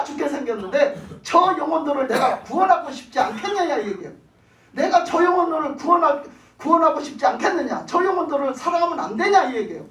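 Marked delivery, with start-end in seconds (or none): 1.2-3.8 pleading loudly as God; fervent preacher voicing God's appeal; impassioned plea. Preacher voices God's plea for souls. 4.7-9.4 raised, insistent pleading; fervent preacher speaking for God; impassioned plea. Acted. Preacher voices God's plea for souls.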